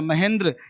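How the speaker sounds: "महेंद्र" with tight final dr cluster; correct reading. Shown as a demonstration. Teacher giving the Hindi sound, "महेंद्र" as ma-hen-dra. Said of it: "ये महेंद्र नहीं है".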